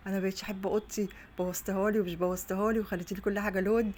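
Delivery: imitating a daughter's cross complaint; retold scolding. Daughter complains to mother about her room, imitated scolding. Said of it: "عماله تسب لي وتلعن لي".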